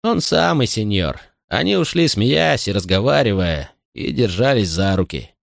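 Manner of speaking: keen to please his master; eager servant voice. Acted. Butler voice.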